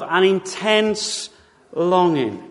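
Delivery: very slow, drawn out "intense longing"; emphatic slow. Shown as a demonstration. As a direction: stretch out "intense" and let "longing" sink. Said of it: "He really means this".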